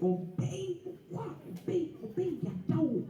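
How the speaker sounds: mock prophet command.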